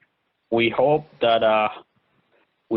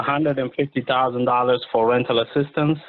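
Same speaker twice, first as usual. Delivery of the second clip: clear repeat; 2 semitones higher than usual. Real, not acted. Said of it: "Can you repeat that?".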